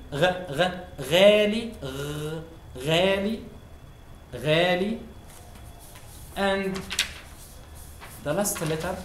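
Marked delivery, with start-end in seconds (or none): 0.1-5.0 غالي, gargled غ, louder; gargled Ghain in غالي. Shown as a demonstration. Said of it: "word expensive in Arabic is غالي".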